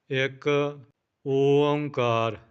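ਇੱਕ, a clear pause, ਓੰਕਾਰ stretched slowly; pause after ਇੱਕ. Shown as a demonstration. Teacher showing learners where to stop, pause after ਇੱਕ. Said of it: "ਇੱਕ ਕਹਿ ਕੇ ਥੋੜ੍ਹਾ ਰੁਕਣਾ ਹੈ".

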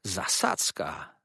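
a sudden high hiss of alarm; startled villain hissing ambush. A narrator's reading. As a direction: spit out the word ambush. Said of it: "syknął".

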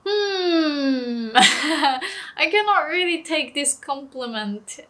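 mock embarrassed laugh through the words; giggling, half-serious protest. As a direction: laugh it off, a bit flustered. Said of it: "I'm like".

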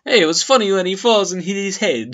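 high, loud goofy put-on voice; hammed-up silly mimicry; mocking Eddie Brock. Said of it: "my name's Eddie Brock".

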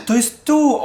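gasp, then a high, drawn-out exclamation; excited discovery. Real, not acted. Gamer spotting the office he was looking for, excited. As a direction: blurt it slowly on a high pitch after a gasp.

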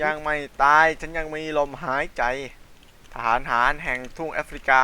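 dramatic soldier. Acted. Dramatic soldier speech in game.

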